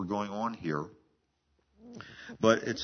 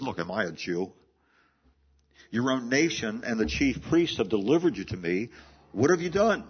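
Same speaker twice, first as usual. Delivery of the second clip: an impatient governor losing his patience; mock exasperation building to a sharp question; exasperated Pilate. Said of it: "Pilate is becoming exasperated".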